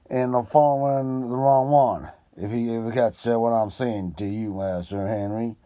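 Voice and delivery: a keen detective thinking aloud; Holmes voice. Acted. Holmes speech held loud.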